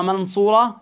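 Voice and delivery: منصورة with a crisp, unheld n; clear izhar. Shown as a demonstration. Tajweed teacher shows the mistake, clear noon in منصورة. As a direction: pronounce the noon of منصورة fully, no hum. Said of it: "هيك إظهار".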